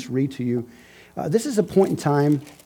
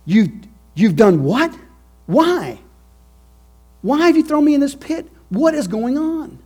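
high, loud, panicked questions from the pit; frightened Joseph; 13 semitones higher, 8 dB louder than usual. Acted. Joseph calling up to his brothers from the pit, high and frantic. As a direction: cry out in shock and fear. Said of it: "Joseph had to be asking".

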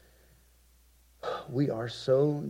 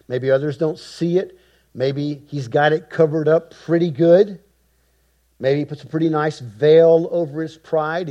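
ordinary delivery

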